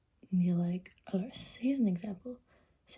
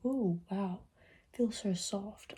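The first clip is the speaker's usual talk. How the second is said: pretend wonder; slower than usual. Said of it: "let's pretend".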